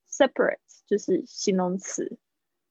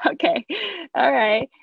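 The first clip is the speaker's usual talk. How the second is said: laughing; 7 semitones higher, much slower than usual. Real, not acted. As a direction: chuckle it out amused. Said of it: "teacher laughs at own joke".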